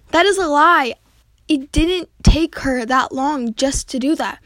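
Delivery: loud, indignant accusation; accusing. Acted. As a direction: call out the lie. Student accuses classmate.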